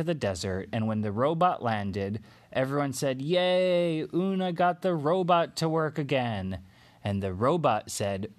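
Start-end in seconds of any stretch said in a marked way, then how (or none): 3.2-6.6 excited cheer. Acted. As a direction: cheer like a crowd of happy kids. Everyone cheers in story.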